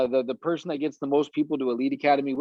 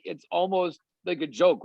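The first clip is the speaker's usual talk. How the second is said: normal talking voice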